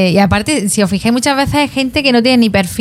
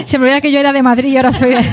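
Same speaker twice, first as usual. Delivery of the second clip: laughing mock confession; 4 semitones higher, faster than usual. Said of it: "hablaba fino".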